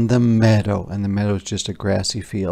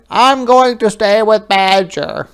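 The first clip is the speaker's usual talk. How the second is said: higher, louder cry while running; calling out; 10 semitones higher, 9 dB louder than usual. Acted. Hedgehog calls back to Otter, higher and louder. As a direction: call it out bravely on the run. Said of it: "he cried".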